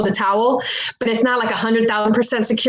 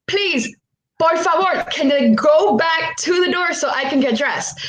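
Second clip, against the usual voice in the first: mildly pleading, higher voice; retold begging; 6 semitones higher than usual. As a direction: re-enact a polite, pressing plea. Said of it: "I'm, like, begging her".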